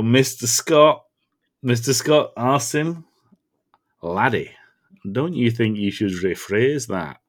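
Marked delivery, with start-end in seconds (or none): 4.0-7.2 put-on tentative Scottish accent; attempted Scottish accent. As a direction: try Scotty's Scottish lilt, a bit unsure. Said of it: "So I can't do the accent".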